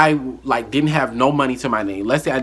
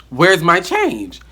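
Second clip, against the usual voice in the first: demanding; 6 semitones higher, 4 dB louder, slower than usual. Retold or imitated. Confronting coworker about owed money.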